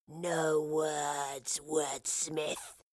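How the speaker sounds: low, hissed creature line; hissing creature. Acted. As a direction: hiss it with contempt. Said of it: "hissed the creature".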